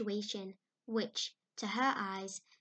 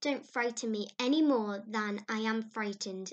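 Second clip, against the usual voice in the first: imploring; 6 dB louder than usual. Acted. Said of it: "implored Anne".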